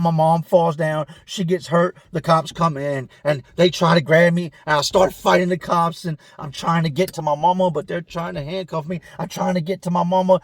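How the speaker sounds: lightly voiced distressed cellmate. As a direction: rush it like a panicked man. Cellmate retells fight, frantic.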